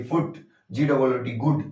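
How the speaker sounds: फुट and गुड with a brief oo; फुट, गुड said quickly with short oo; short quick vowel. Shown as a demonstration. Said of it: "जल्दी बोल देते हैं".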